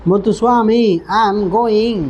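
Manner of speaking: put-on a light South Indian accent on मुत्तुस्वामी, I am going, very slow; teacher imitating a South Indian English accent; mock South Indian English, drawn out. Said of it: "south के अंदर कैसे English बोली जाती है".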